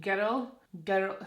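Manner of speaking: put-on GIRL in a Scottish accent; Scottish "girl", sounding like "gerrel"; Scottish pronunciation. Shown as a demonstration. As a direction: say GIRL the Scottish way, almost two syllables. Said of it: "See, when I say girl".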